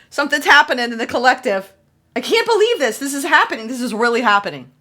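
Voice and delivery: gasping at what the cards show; amazed excitement. Real, not acted. Tarot reader thrilled by the recurring cards, excited. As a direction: pitch jumps way up, amazed and thrilled.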